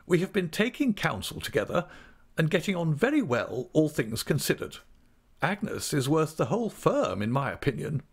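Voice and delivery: high-pitched, brisk aunt's voice; talkative aunt. Acted. Aunt briskly tells of managing her own money, high-pitched. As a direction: speak up high as a forthright older relative.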